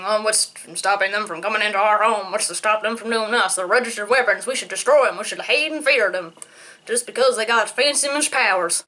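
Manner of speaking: mocking Senator Kelly. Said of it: "Principal Kelly from my universe is rubbing off of me".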